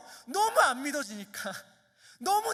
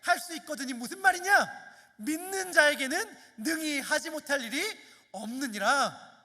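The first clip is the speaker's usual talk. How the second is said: higher, louder solemn proclamation, slowing on the end; Jesus' rebuke; 3 semitones higher, 4 dB louder than usual. Acted. Jesus answers the doubting father with a louder, solemn rebuke. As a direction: declare it with authority. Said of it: "예수께서 이르시되".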